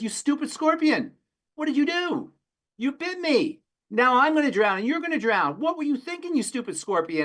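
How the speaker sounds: the bitten frog screaming at the scorpion, very high; outraged frog. Retold or imitated. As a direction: cry out in disbelief at the betrayal, way up high. Dying frog voiced in fable.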